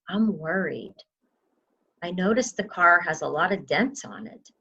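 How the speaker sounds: gentle worried talk. Shown as a demonstration. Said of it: "sit down with your loved one and say".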